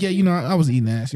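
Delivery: quick offhand line; mock casual. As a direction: say it like it's nothing. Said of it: "he said it so casually".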